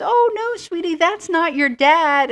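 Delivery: high, loud fussing mom voice; a mother hurrying to correct her child, voice up high; flustered mom. Retold or imitated. Mom rushes up, corrects daughter.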